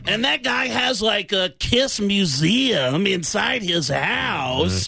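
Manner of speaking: high, slow, shouted rocker voice; impression of a rock singer. Telling the host about a rock musician's house, high shouted rocker impression. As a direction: belt it out like an amazed rock singer. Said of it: "loves that I do these impressions of the guys from the band".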